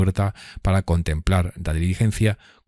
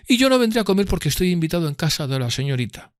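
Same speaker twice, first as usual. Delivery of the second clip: high, lofty gentleman's voice; voicing Drumley as a haughty gentleman; 11 semitones higher than usual. A narrator's reading. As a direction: lord it over the room. Drumley boasts to waiter.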